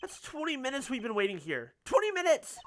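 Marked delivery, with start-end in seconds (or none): 1.9-2.6 high, loud exasperated cry; exasperated outburst. Acted. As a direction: blurt out Twenty minutes! indignantly. Exasperated complaint at waiting.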